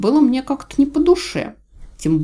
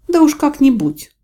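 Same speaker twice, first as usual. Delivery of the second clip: grumbling; 9 semitones higher, 7 dB louder than usual. A narrator's reading. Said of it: "буркнула я".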